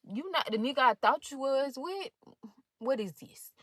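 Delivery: a touch of shocked disbelief; retold disbelief. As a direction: replay a stunned, questioning inner reaction. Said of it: "I was in dis-, disbelief".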